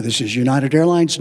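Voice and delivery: United Airlines said low and loud with swagger; proud airline captain. Retold or imitated. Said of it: "very proud airline captain voice".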